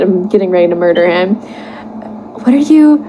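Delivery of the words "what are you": put-on girly voice. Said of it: "asked Weeby".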